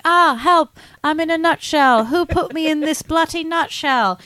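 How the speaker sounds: high, squeaky cry for help from inside a nutshell; panicked little man. Retold or imitated. Retelling the movie scene, a tiny trapped man squeals for help. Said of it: "so he's like".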